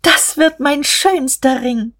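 high, slow, delighted exclamation; jubilant. A narrator's reading. Guste rejoices over her new diamond ring, jubilant. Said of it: "Da jubelte Guste".

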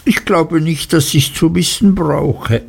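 put-on a touch of a sulky girlish wife; Dora's voice. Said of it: "meinte Dora".

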